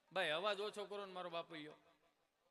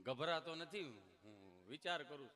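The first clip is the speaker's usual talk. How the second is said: a hint of a lower, hesitant Gabho; Gabho answering; 8 semitones lower, 5 dB quieter, slower than usual. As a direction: mumble it lower like a timid villager. (નીચા ખચકાતા અવાજે ગભો)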